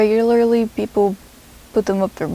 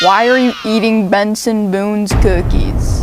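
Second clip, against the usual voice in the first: mock angry. Narrator confronts a singer over cookies, mock angry shout. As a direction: call him out, angrily.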